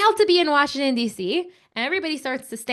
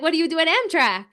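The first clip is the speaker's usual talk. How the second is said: higher, eagerly curious question; excited curiosity; 6 semitones higher than usual. Retold or imitated. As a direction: retell it with a touch of excitement. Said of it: "we were so excited".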